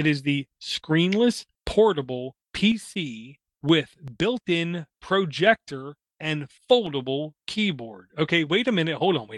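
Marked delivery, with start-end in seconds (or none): 0.0-8.1 spoken slowly and deliberately. Speaker spelling out what a screenless portable PC is, spoken slowly and deliberately. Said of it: "I'm going to say this slowly".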